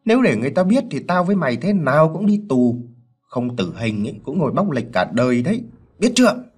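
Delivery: stern, forceful warning. Acted. Husband instructs his wife on the lie, stern warning. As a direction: drill the cover story into her. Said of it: "nhìn vợ gằn giọng".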